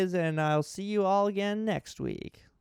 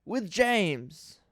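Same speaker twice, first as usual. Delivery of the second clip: mock-earnest read of a ranting fan review; a dramatic reading of someone else's angry episode review. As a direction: perform it straight-faced, like an outraged reviewer. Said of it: "A dramatic reading of a top ten worst Thomas".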